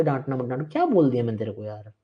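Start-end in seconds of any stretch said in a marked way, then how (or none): 0.0-0.7 soft, whiny mimic of a timid student; hushed mock plea, sing-song rise; mocking whine. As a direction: repeat it like a scared kid begging. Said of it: "ये warning मत दिया कर".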